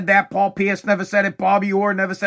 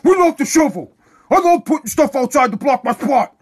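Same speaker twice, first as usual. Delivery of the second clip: higher, louder mock-cheerful sarcasm; sarcastic New Englander; 6 semitones higher, 4 dB louder than usual. Locals answering an outsider, loud mocking cheer. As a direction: overdo the fake enthusiasm. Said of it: "we're like".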